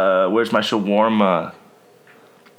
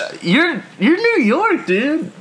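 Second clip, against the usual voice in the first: excited laughing; 3 dB louder, slower than usual. Real, not acted. Laughing at quiz result.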